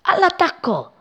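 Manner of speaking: high-pitched charge call, no added volume; rally the troops to attack; narrated war cry, pitched high; battle cry. A narrator's reading. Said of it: "urlava una nuvola alle compagne".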